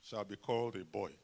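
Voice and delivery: lightly voiced grand matron; mock solemn pronouncement, slowed; matronly woman voice. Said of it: "big matronly woman who goes around".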